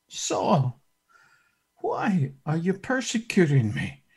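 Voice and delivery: soft, tender plea; gently grieved question; compassionate. Acted. The Lord speaking softly and tenderly to Saul. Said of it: "He says".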